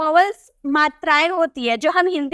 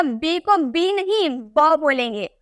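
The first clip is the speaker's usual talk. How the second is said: slow rule; slower than usual. Shown as a demonstration. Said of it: "हमेशा याद रखिएगा".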